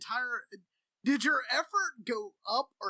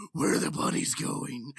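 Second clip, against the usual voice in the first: silly voice; 5 semitones lower, 5 dB louder than usual. Pretend. Joking silly voice.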